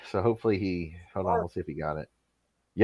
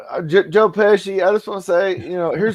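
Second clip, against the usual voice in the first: higher-pitched character impression; Jake Hudson; 6 semitones higher than usual. Praising Pesci on air, as a lightly hammed-up impression. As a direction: put on a higher Mississippi voice. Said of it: "I can do the Jake Hudson".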